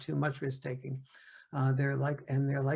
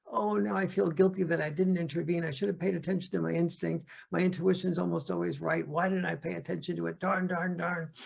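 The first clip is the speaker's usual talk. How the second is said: lightly raised voice of a fretting mom; mom blaming herself; 4 semitones higher than usual. Retold or imitated. Mom frets aloud after a child gets hurt, higher pitched. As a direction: fret and scold yourself, a bit higher. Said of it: "mom goes".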